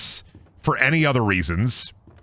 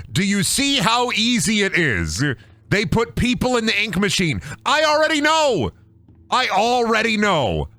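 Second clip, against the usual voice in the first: mock smug voice; 10 semitones higher than usual. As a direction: gloat like you knew all along.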